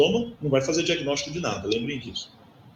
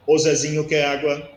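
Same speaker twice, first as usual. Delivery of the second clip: lightly robotic, level-pitched imitation; 3 dB louder than usual. Shown as a demonstration. Lecturer imitating an autistic child's unusual prosody, lightly robotic. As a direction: say it a bit like a robot, evenly pitched. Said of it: "como se fosse algo robotizado mesmo".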